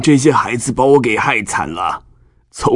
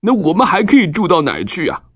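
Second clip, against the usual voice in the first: sad; 10 semitones higher than usual. Acted. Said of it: "难过地对西缅和利未说".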